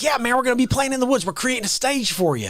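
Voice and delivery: lightly imitated Southern buddy; a touch of Southern accent. Buddy pitching a gig in the woods, imitated Southern accent. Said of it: "like, Southern accent".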